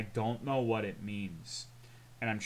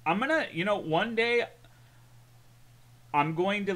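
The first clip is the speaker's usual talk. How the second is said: ordinary talk, nothing marked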